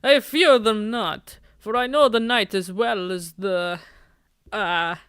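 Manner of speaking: a hint of theatrical dark poet, slow in places; lightly grandiose brooding goth. Nervous boy posing as vampire to his date, lightly theatrical. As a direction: play at being a creature of the night.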